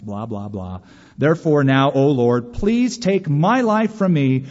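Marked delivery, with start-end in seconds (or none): 1.2-4.4 loud, slow, pleading; pleading prayer. Retold or imitated. Preacher voicing Jonah begging God, loud slow plea. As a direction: beg slowly for death.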